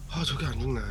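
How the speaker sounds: irritated, low, pressed-down deep voice. Imitating an older guy's real voice, not his broadcast one: put-on low, deep voice. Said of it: "목소리 딱 깔고".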